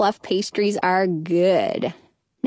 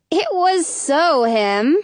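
sisterly retort; 5 semitones higher, slower than usual. A narrator's reading. Sister retorts, accusing her brother.

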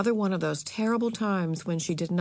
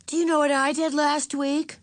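put-on higher-pitched eager child's voice; eager young girl; 8 semitones higher, 5 dB louder than usual. A narrator's reading. Girl starting to tell her aunt her news, eager. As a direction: raise the voice to a keen young girl's.

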